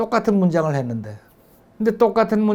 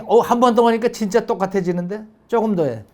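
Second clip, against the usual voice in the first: bright praise; 5 semitones higher than usual. Shown as a demonstration. Mom encouraging her child's second try, pleased and eager. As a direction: cheer the child on with real delight. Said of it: "그걸 언급을 해주면은 그거를 칭찬이라고".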